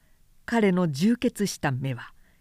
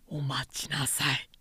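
hasty interruption; 6 semitones lower, 8 dB quieter than usual. A narrator's reading. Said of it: "純育は慌てて".

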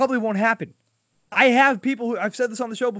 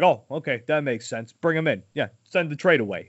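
a lightly lowered voice for the general manager; mock deep voice; 4 semitones lower than usual. Mocking Chaim Bloom accepting a bad deal, lightly lowered voice. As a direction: drop into a slightly deeper mock executive voice. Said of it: "with his really deep voice".

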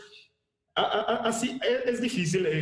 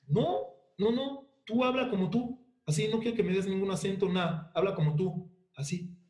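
imitating the director in a much higher, insistent voice; quoting the director; 5 semitones higher than usual. Director tells the actor to just talk like himself, high mock insistence. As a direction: play the director waving off the accent, pitched way up. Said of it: "Y me dijo".

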